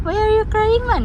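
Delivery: very high, loud teasing question. Real, not acted. Mother asking crying baby again, squeaky loud teasing. Repeats tease, higher.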